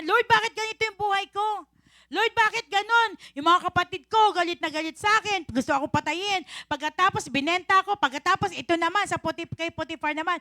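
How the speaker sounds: mock whiny lament to the Lord; lightly voiced Joseph griping about his life; complaining Joseph. (daing ni Joseph)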